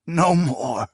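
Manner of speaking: a fading, broken sob; sobbing. Acted. Tortured prisoner repeating his plea, fading sob. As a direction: let the plea crumble into a sob. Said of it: "the man sobbed".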